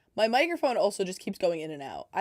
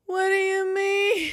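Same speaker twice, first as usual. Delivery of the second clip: indignant shout; 11 semitones higher, 7 dB louder than usual. Real, not acted. Outraged at a failure.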